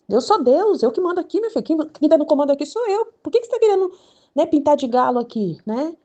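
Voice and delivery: high, loud acted scolding; hammed-up bossy telling-off; indignant mock God. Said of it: "Aí ele fala assim".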